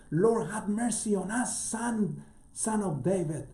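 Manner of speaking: high, slow beseeching call; pleading cry. Acted. Blind men by the road calling to Jesus, high slow plea. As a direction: cry out for mercy, stretched and lifted.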